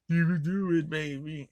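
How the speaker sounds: high, loud salesman pep; mock salesman cheer. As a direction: pump her up like a cheesy closer. Voicing the salesman.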